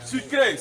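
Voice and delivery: Sucré said loud as sue-KRAY; clear model word. Shown as a demonstration. Teacher to class, modelling Sucré loud. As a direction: call Sucré out for the class to repeat. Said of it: "say it".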